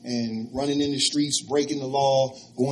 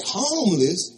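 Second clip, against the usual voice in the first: shocked echo; 5 semitones higher, 5 dB louder, slower than usual. Retold or imitated. Shock at the news.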